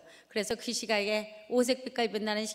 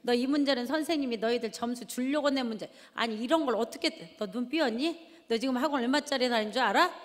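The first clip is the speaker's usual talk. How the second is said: scolding. Retold or imitated. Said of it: "또 쏘아붙이죠".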